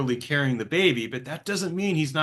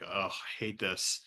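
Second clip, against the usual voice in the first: quiet misery; 6 semitones lower, 10 dB quieter, slower than usual. Retold or imitated. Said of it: "And just being like".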